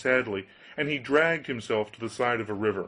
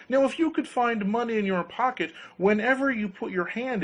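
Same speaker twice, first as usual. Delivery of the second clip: tempting grinder voice; 11 semitones higher than usual. Acted.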